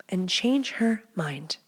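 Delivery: breathy slow whisper, almost no voice; sly whisper. Pretend. Host teasing listeners about waking her, sly whisper. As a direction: whisper it like a secret tip.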